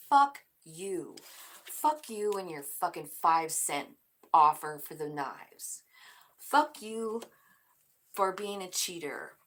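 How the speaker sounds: loud, cursing kiss-off; fed-up outburst. Acted. Card girl telling off her cheater, loud angry outburst. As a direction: spit it at the cheater. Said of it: "She's like".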